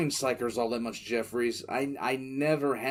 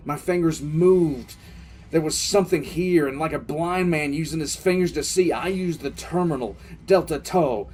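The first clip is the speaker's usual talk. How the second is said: louder and more driven as the pieces click together; urgent, building; 3 semitones higher, 5 dB louder than usual. Acted. Telling Jeffries how the realization built, loud and urgent. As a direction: push harder line by line, like a discovery taking hold.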